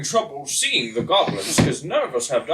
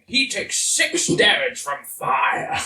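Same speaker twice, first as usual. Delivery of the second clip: proclaiming; slower than usual. Acted. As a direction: announce the damage with force. Dramatic spell damage.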